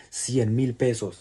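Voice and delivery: slow, stunned disbelief. Real, not acted. To viewers about the metro fare, stunned and slow. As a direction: spell out the painful price. Shock at the bank charge.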